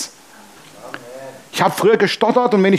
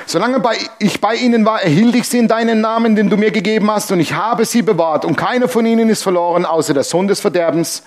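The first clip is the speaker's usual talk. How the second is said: raised reading voice; lightly raised voice for a Bible passage; scripture reading; 4 semitones higher than usual. Acted. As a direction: read the prayer of Jesus aloud with lift. Reads scripture aloud.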